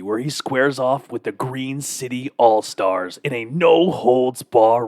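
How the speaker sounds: slow, drawn-out wrestling announcer. Shown as a demonstration. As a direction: announce it like a big match intro. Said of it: "I'm gonna do my wrestling voice".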